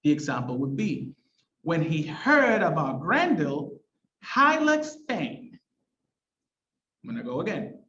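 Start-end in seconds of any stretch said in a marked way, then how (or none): 1.6-5.6 slow down on "Hylax Thane" after a pause, stressing "Hylax"; stressed alliterative verse. Shown as a demonstration. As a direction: recite with marked beats on "heard", "Grendel", "Hylax", "Thane". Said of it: "heard, the, the, one of the stressed syllables".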